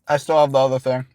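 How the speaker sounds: talking while chewing; words round a mouthful of food; mouth full. Real, not acted. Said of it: "Oh, you're still chewing the other?".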